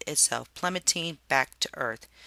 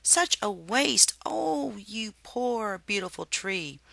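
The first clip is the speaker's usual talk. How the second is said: sorrowful; 7 semitones higher, slower than usual. A narrator's reading. Grieving over fallen tree.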